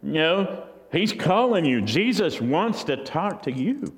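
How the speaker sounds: high, bright, cheering him on; sudden friendliness, urging him up; eager encouragement. Acted. Crowd now cheers the blind man on, eager and friendly. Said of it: "saying to him".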